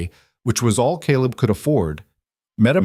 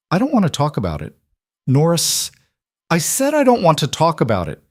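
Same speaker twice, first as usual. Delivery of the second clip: put-on upset child; 8 semitones higher than usual. Upset child refusing to talk.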